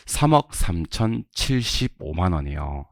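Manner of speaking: slow, deliberate number read-out; slow drill reading. Shown as a demonstration. Teacher models amount nine for class, slow drill reading. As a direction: read each chunk separately and slowly.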